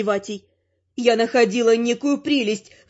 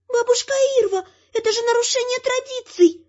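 put-on high, nervous plea from a young man; nervous whisper; 9 semitones higher than usual. A narrator's reading. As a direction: hiss it out anxiously at the old woman. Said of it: "Нервно шепчет Лель". (нервный высокий шёпот)

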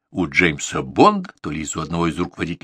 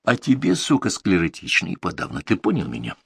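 calm. Acted. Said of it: "сказал Игорь абсолютно спокойно".

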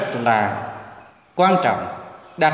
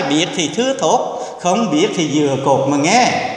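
reciting a proverb. Retold or imitated. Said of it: "Ca dao Việt Nam rất là hay".

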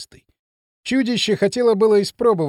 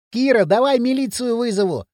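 higher-pitched call across a distance; raised, carrying voice; 5 semitones higher than usual. A narrator's reading. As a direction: shout an offer over to a friend. Boy calling across the ravine.

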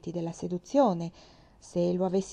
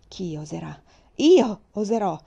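shouted back; 8 dB louder than usual. Acted. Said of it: "gridai a mia volta".

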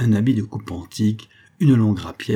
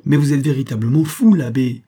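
higher, louder scolding of a friend; a hint of a lively actress scolding; lightly voiced exasperated actress; 5 semitones higher, 7 dB louder than usual. A narrator's reading. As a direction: chide him like a fond actress.

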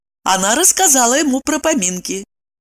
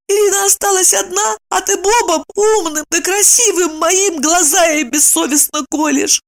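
scolding; 9 semitones higher than usual. A narrator's reading. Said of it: "Евдокия пожурила подругу".

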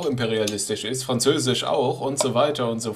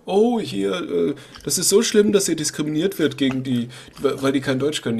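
mocking whine; 3 semitones higher than usual. Mocking critics' complaint.

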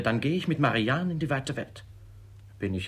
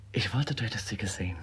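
confiding whisper; faster than usual. Acted. Siblings confide about his beloved in whispers. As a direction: whisper as if sharing a secret.

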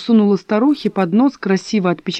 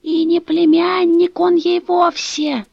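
a mild stage whisper, high and slow; lightly voiced secretive old woman; old woman confides to Dasha, mock secret; loud whisper; 9 semitones higher, slower than usual. A narrator's reading. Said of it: "громко прошептала".

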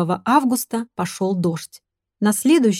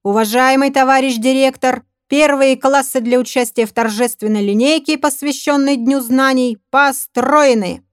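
formal parade report; 4 semitones higher than usual. Acted. Formal report to school director.

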